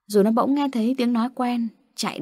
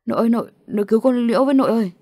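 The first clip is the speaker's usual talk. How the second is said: fast, urgent begging, a little louder; frightened plea; 2 semitones higher, 4 dB louder, much faster than usual. Acted. Boy shakes grandma, begging her to save Liễu in fast fright. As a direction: beg grandma in a frightened rush. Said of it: "giật mình lay lay nội".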